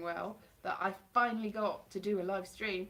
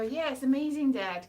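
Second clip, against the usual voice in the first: lightly acted gushing approval, a bit louder; mock praise; 3 semitones higher, 6 dB louder than usual. Daughter humouring Dad so he won't get upset, mock praise. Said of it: "you have to go".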